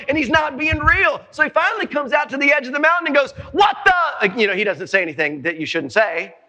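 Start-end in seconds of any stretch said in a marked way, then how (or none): 3.5-4.4 raised-voice, cut-off exclamation; raised pitch, mock outrage; exasperated mad David. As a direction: act out David's indignation. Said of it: "but he's mad".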